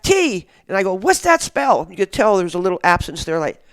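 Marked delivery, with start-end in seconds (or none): 0.0-0.5 high, loud mock kids' shout; imitated crowd yell. Kids yelling the letter back at host, imitated yell. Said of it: "They're yelling back". 0.9-1.9 high, loud question to a crowd; retold rallying call. Host asks kids what it spells, retold rallying shout.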